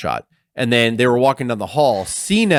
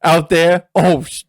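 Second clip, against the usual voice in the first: slow, higher-pitched put-on voice with a drawn-out "damn"; mock Ron Simmons; 5 semitones higher, 5 dB louder, much slower than usual. A podcaster imitating Ron bumping into Heyman, slow and hammed-up. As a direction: drag it out like a wrestler hamming up a stumble. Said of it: "He was like".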